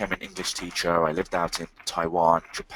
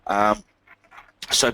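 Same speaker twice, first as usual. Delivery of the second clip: bunged up nose; speaking with a cold; blocked nose. Real, not acted. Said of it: "the bunged up voice and nose".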